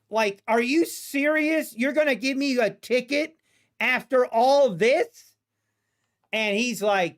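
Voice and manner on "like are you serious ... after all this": mildly incredulous, rising at the end; retold incredulity. Driver handed a tint ticket after the search, retold disbelief. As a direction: protest in disbelief, stretching the last words. Acting his outrage at the ticket.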